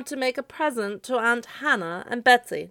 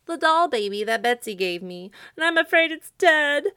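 high, loud lament; sobbing; 8 semitones higher, 8 dB louder than usual. A narrator's reading. Scarecrow fears the doll is dead, sobbing. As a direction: wail it higher and louder to the end. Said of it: "poor Jimmy Scarecrow sobbed".

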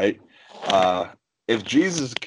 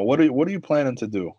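calm challenge; faster than usual. Retold or imitated. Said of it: "I was very calm".

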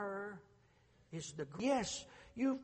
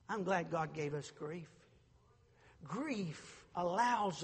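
tender preaching; slower than usual. Acted.

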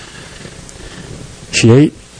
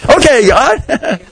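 drawn-out okay; 7 semitones higher, much slower than usual. Acted. Elijah answers God again.

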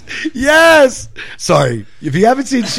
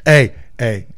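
mock pleading; 6 semitones higher, 3 dB quieter, much slower than usual. Plays ex-teammate pleading to reunite.

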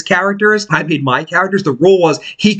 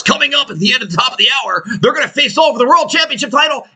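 higher, fast wrestling announcer promo; higher quick hyped-up announcer teaser; announcer hype; 8 semitones higher, faster than usual. Retold or imitated. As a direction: sell it like a ringside announcer. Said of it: "I have been saying for two hours".

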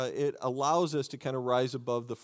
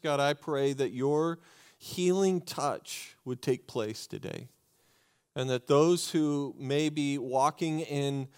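prayer. Acted. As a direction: pray over them gently. Pastor prays over congregation.

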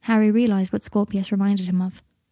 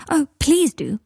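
higher, eager plea; eager cry; 7 semitones higher, 3 dB louder, slower than usual. A narrator's reading. Scorpius begs Teddy to show him the joke shop stuff, eagerly. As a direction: jump at the offer, pitched higher. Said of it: "cried Scorpius".

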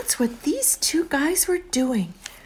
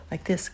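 snoring; 3 semitones lower, 5 dB quieter than usual. Shown as a demonstration. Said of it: "Can you make a snoring sound".

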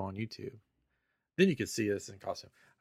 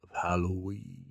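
slow theatrical villain menace; 3 dB louder, slower than usual. Acted. Intro continues in spooky voice.

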